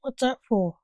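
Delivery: mildly uneasy question; nervous. Acted. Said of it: "asked Jasper nervously".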